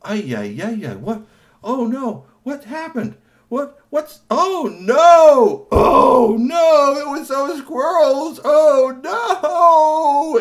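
high, loud comic wailing. Acted. Tony and Kashi wailing over their crashed truck, loud high. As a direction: wail over the wrecked truck, rising to a shout. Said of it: "sitting there wailing".

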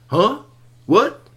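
puzzled squeaky what; confused squirrels. Acted. Ninja squirrels looking around, high confused huh.

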